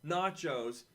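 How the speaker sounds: guard your nachos like a hammed-up label; mock possessive warning. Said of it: "And it was like".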